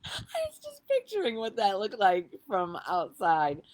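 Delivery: talking through real laughter; real laughing aside. Real, not acted. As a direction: giggle while picturing it. Laughing at own memory.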